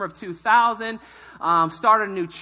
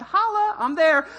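excited holla; 8 semitones higher, 3 dB louder than usual. Retold or imitated. Excited teen quote.

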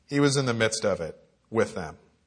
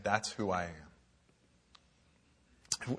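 solemn declaration; 6 semitones lower, 11 dB quieter, much slower than usual. Acted. Preacher voicing Jesus' claim.

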